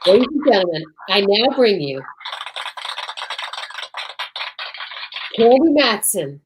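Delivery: announcer intro. Acted. Host presenting the show to listeners, announcer voice. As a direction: bring on the show like an old radio announcer.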